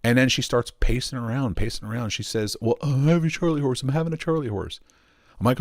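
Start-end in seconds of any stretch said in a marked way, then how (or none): 2.6-4.8 mildly panicked, higher-pitched retelling; imitating someone in a mild panic; imitated panic. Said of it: "she's just in a fucking panic".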